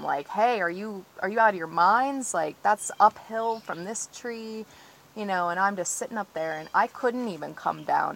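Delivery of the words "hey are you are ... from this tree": a touch louder, calling up a hill in alarm; mild mock yell at the loggers; retold scream. Tree-sitter recalls yelling at loggers cutting uphill, mild mock yell. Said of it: "And I'm screaming at them".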